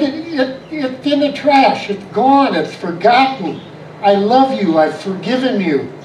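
retold mild exasperation, settling into reassurance; insistent reassurance. Husband tells wife it is forgotten, insistent reassurance.

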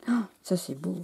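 soft, awed whisper; whispered admiration for the card. Real, not acted. Admiring the creation.

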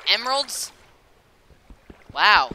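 high, loud thrilled gasp at the find; excited. Real, not acted. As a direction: burst out in delight. Spots emeralds in game.

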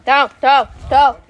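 loud, repeated short call; calling animals. Real, not acted. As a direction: call out to a straying pig. Calling the pig back. (chamado alto para o porco)

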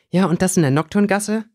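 high, sharp telling-off; scolding. Acted. Girl scolds her friend for the dangerous trip, scolding. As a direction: scold him for going there. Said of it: "schimpfte Winona".

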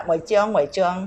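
"หมวยเจียง" in Hakka dialect; Hakka accent. Shown as a demonstration. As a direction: say "หมวยเจียง" as Hakka speakers do, repeated. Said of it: "สำเนียงปั้นสันขะ".

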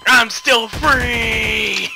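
slow triumphant yell; gleeful shout. Pretend. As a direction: drag it out, crowing.

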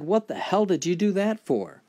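high, loud cry of outrage; pained outburst. Acted. Jane shouts at Tarzan after the kick, pained and loud. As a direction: yell it through the pain.

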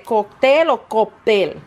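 "cóctel" then "cóctel" with a p sound, koptel; slow, compare cóctel and cóptel; slowly weighing "cóctel" against "cóptel"; two pronunciations. Shown as a demonstration. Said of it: "¿Cómo se dice?".

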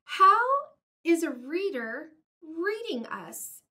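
a sudden high how, then a wondering question; amazed Elephant. Acted. Elephant asking Piggy, amazed. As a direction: Elephant can't believe it.

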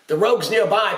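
loud urgent pirate captain; pressing pirate. Acted. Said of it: "Papa pressed".

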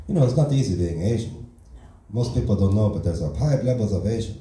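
put-on broken English in a light Asian accent; deadpan Asian-accent stand-up persona. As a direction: play the fresh immigrant with a mild Asian accent. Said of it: "that's not how I actually talk".

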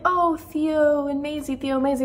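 teasing chant of other people's enthusiasm; mock gushing. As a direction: lightly mimic everyone fawning over a couple. Mimics everyone gushing over a couple.

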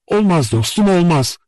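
high, insistent interruption; cutting in. A narrator's reading. Nastenka stops the narrator's plan, cutting in sharply. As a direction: break in with a firm refusal. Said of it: "diye araya girdi".

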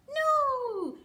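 loud high no!; big surprised no; excited no. Acted. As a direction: shout it out for the reveal. Lift the flap reveal.

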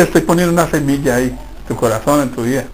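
soft voice of God. Pretend. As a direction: whisper the promise into his heart. God answering the impatient believer.

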